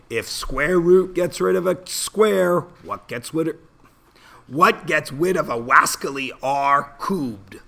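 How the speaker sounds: high, bouncy cartoon hunter voice with w for r; lisping cartoon hunter, hammed up; Elmer Fudd impression. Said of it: "I am doing an Elmer Fudd impression".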